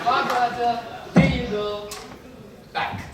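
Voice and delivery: demonstrating the tram ticket routine in a mock German accent. Shown as a demonstration. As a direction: hand over the ticket in a hammed-up German accent. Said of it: "If you wanna do the German voice with it".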